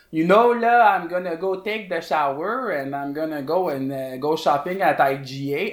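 lightly put-on French accent, sister's voice; mock French accent. Sister's French-accented English, mocked by her sibling. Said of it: "quintessential, um, French to English accent".

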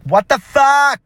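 acting out her own outraged shock; shocked outburst. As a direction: yelp it out in disbelief. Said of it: "and I was like".

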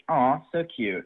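flat, bored mock of Aw, so cute; imitating a daughter's unimpressed thanks; no emotion. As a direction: say Aw, so cute with zero feeling. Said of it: "No, no emotion in her voice".

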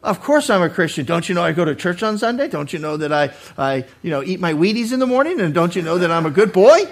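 lightly mocked self-justifying protest; quick, mildly affronted questions; self-righteous Christian. Churchgoer insisting he is a good Christian, self-righteous. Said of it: "we can sound just like him".

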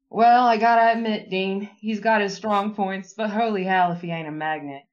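lightly voiced Louisiana accent, hesitant attempt. Reading Benny's lines in a light Louisiana accent. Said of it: "perfect Louisiana accent".

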